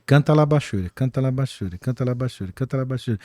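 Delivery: soft, low repeated phrase; imitated early tongues. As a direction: repeat it low and evenly, recalling your first tongues. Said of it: "eu falava assim". (imitando, baixinho e repetitivo)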